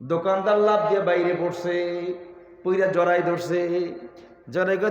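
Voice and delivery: half-sung preacher's narration with held line endings; intoned storytelling on a steady sustained note; melodic sermon storytelling. Acted. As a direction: chant the tale, stretching the last syllables. Sermon story told in melodic chant.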